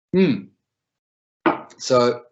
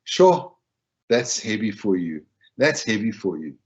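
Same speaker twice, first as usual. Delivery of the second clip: mindful, acknowledging; 3 semitones lower than usual. Shown as a demonstration. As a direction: acknowledge their weight with calm care. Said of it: "in a more mindful way".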